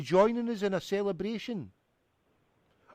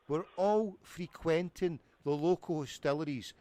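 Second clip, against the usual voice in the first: put-on English accent. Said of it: "can you hear my poor English accent".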